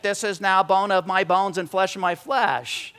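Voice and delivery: slow, measured reading of verse; slow poetic recital; reverent recitation. Shown as a demonstration. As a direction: recite it slowly like poetry. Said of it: "deeper than just reading and reciting".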